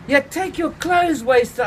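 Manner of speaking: high, slow interrupting; cutting in. A narrator's reading. The narrator cuts Vic off mid-chat, high and slow.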